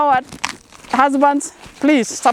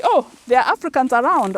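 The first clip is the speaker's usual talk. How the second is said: mildly delighted, higher-pitched exclamation; happy surprise; 4 semitones higher than usual. Retold or imitated. A farm host voicing lonely Africans finding others, mildly happy surprise. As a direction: imitate their pleased surprise. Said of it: "many are so happy to see".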